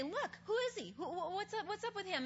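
lightly voiced pushy interrogators; questioning Pharisees. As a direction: press him for answers like suspicious officials. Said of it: "they question this blind guy".

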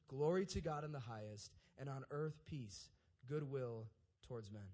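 measured, solemn Bible reading; scripture reading. Acted. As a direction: read the nativity passage steadily and reverently.

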